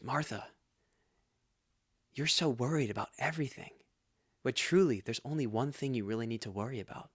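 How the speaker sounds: soft, measured, calming reply with long pauses; gentle reassurance. Acted. Jesus answering a flustered Martha, gentle reassurance. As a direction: soothe a worried friend, quietly and unhurried.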